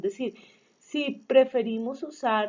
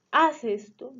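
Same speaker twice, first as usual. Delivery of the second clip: imperative order; 3 semitones higher, 3 dB louder than usual. Shown as a demonstration. Teacher showing students an exclamation of command, imperative. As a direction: give a short example command. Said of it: "de orden".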